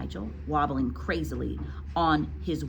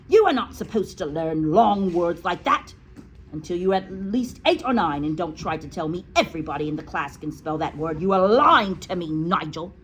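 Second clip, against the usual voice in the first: louder, stern headmistress scolding; stern accusing; 5 dB louder than usual. Acted. Headmistress scolds Nigel for lying, stern and loud.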